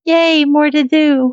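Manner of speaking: high, slow sarcastic yay; mock cheer. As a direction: fake enthusiasm, drawn out. Joking about playing two systems.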